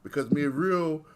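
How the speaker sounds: lightly held mock Jamaican patois; a hint of fake Jamaican accent, mostly own voice. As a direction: keep a fading fake Jamaican lilt going. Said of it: "Why can't me have the fake accent".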